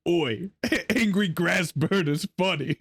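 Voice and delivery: slow, rough British butcher. Retold or imitated. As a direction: read it like a gruff butcher. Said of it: "in my best butcher voice".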